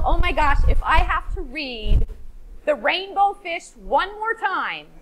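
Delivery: exasperated. Retold or imitated. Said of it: "And you might say to yourself".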